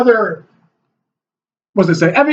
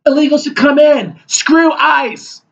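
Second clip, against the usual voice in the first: mock protester voice; 4 semitones higher, slower than usual. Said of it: "standing on the side of the street saying".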